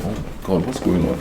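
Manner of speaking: hushed alarm. Retold or imitated. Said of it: "So I'm sitting there like".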